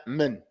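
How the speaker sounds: "min" with the vowel squashed from meem to noon; fatha swallowed. Shown as a demonstration. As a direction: say "min" without opening the mouth. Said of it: "go from the meme to the noon without opening".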